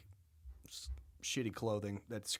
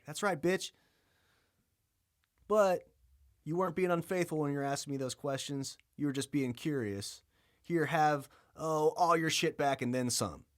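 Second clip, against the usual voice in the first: higher and louder, smug; mock God; 5 semitones higher, 4 dB louder than usual. God gloating over Job, high and loud. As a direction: play a cocky God handing it all back.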